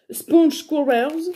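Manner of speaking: English brand name in a French accent, slow. Real, not acted. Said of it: "Excusez-moi de mon accent". (accent français en anglais, lentement)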